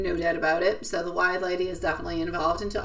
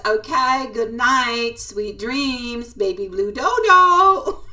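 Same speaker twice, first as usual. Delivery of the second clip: sleepy bird voice; 3 semitones higher, 4 dB louder, much slower than usual. Retold or imitated. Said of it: "he says".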